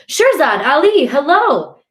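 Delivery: high, loud, drawn-out hello; hearty greeting. A narrator's reading. Cousin Gilad greeting Shirzad and Ali, hearty greeting. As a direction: hail both cousins gladly.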